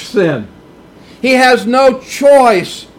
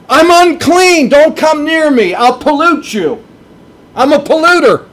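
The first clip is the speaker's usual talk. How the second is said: higher, pleading "I'm unclean. Don't come near me" as a leper; leper's warning cry; 5 semitones higher than usual. Acted. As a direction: warn your family away, half-acted. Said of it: "You'd have to say that to your family".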